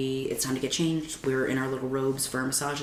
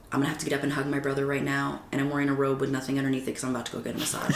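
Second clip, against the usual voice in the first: rushed inner thought; much faster than usual. Retold or imitated. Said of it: "my first thought was".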